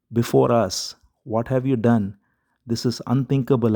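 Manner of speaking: lightly voiced lament, pleading with the creator; queen mourning her dead son, mildly tearful cry. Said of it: "crying out".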